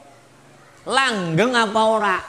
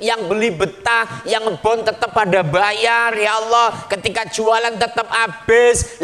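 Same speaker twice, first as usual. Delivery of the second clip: praying warteg seller. Retold or imitated.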